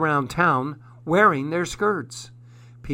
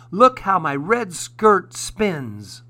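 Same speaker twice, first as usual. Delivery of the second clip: raised, loud and drawn-out delight; exclaiming; 4 semitones higher, 5 dB louder, slower than usual. A narrator's reading. Felix shows off his spinning red skirt, exclaiming. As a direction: show off proudly, stretching the words. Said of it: "Felix exclaimed".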